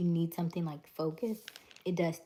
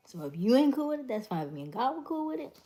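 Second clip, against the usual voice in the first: higher, fast, sassy push-back; defiant; 7 semitones higher, 4 dB louder, faster than usual. Real, not acted. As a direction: toss it off with attitude. Defiant aside to critics.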